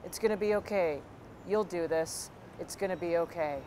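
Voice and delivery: mildly robotic monotone reassurance; imitating a fed-up man on autopilot; robotic, no intonation. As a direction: repeat it mechanically, with little inflection. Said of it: "over and over again with no intonation".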